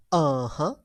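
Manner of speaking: "Uh-huh" dipping, then rising; agreeing "Uh-huh" that ends upward; low third tone. Shown as a demonstration. Like you're agreeing on something, dipping "Uh-huh". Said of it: "Low pitch".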